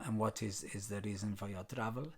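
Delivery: a light mock French accent. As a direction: imitate a French border officer in a faint French accent. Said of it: "That's my French accent".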